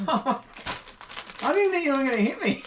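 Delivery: words broken by laughter; laughing. Real, not acted. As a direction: laugh while speaking.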